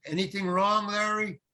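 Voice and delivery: high-pitched call, no real volume; mock yell. Director checking on his actor, lightly mimed yell. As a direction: imitate a director calling from a distance. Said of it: "And he yells".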